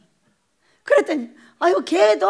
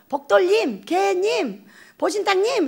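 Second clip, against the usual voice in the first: mock polite; 4 semitones higher, slower than usual. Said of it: "개새끼 안 하려고".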